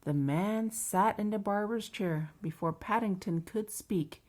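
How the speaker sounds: measured, lively picture-book narration; children's story reading. A narrator's reading. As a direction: read it slowly to a small child.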